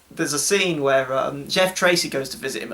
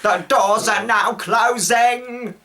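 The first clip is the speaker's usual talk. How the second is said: higher, slow robotic announcement; hammed-up lift voice, stretched out; automated elevator voice; 7 semitones higher, 4 dB louder, much slower than usual. Automated elevator warning passengers of closing doors, mock robotic voice. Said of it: "and the elevator's like".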